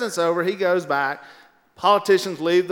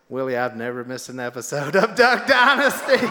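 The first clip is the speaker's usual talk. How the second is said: mock fan voice; 4 semitones lower, 4 dB louder than usual. Fan's answer quoted, loud.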